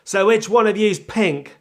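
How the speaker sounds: loud, slow, high-pitched stab at American; exaggerated fake American record man; failed American accent. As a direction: have another botched go at an American accent. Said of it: "That still wasn't an American accent".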